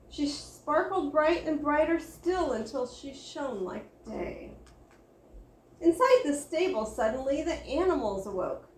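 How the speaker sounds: put-on lively read-aloud for children; story narration. A narrator's reading. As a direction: tell it like a bedtime picture book. Reads a Christmas picture book.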